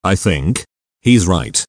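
somber. Acted. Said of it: "said Ben, somberly".

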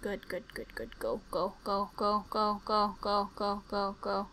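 soft rapid go go; real tense murmur; hushed urging. Real, not acted. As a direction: coax yourself along quietly.

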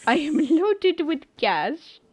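voiced repeat that breaks into a laugh. Streamer joking about her money, laughing through the repeat. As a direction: let the laugh burst out mid-line.

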